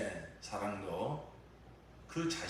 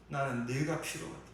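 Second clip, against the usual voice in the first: raised declaration; 6 semitones higher than usual. Acted. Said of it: "주님은 이렇게 대답하실 것입니다".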